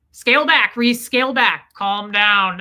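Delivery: loud, urgent pep talk to herself; urgent self-command. Retold or imitated. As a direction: sharply order yourself to back off. Urgently ordering herself to stop pushing.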